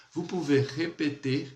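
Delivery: vous pouvez répéter drawn out slowly; slow it down for learners to copy; slow model phrase. Shown as a demonstration. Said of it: "Vou falar novamente essa estrutura pra você".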